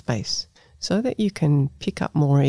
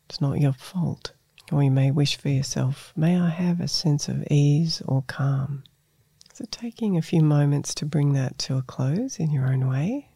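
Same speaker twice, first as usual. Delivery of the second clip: guided meditation. Acted. Leads a self-compassion meditation.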